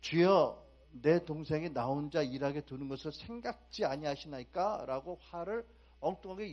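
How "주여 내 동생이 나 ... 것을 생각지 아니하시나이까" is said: loud, indignant outburst at the Lord; angry complaint. Retold or imitated. Preacher voicing Martha scolding Jesus, loud angry complaint. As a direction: hurl the complaint at him, loud. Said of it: "뭐라고 화를 내요?".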